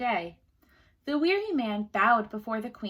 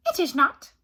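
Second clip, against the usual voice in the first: little man refusing; 5 semitones higher, 8 dB louder than usual. A narrator's reading.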